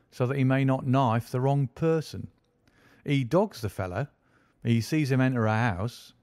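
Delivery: a proud detective boasting of his day's work; smug police inspector. Acted. Lestrade boasting to Holmes about his case, lightly voiced smug inspector.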